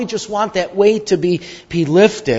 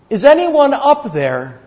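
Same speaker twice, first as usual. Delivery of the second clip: crying out for help; 7 semitones higher than usual. Acted. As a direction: call up from the cliff for help. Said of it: "he cried".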